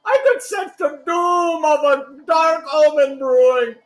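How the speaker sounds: high, pleading salesman voice; urgent pleading. Acted. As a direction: beg with rising urgency.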